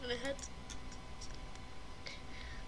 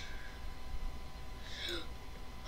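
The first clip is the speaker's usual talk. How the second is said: sharp, breathy intake of air; sudden wordless gasp; startled gasp; 15 dB quieter than usual. Real, not acted. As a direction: gasp in fright. Startled in game.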